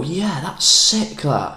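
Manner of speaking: pretending to love a friend's painting, slow and high; fake enthusiasm. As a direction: gush over a painting you don't rate. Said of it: "I'd be able to go".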